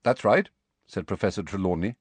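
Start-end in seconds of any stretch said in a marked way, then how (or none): 0.0-0.5 curt. Acted.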